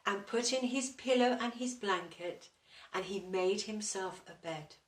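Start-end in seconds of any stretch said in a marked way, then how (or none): none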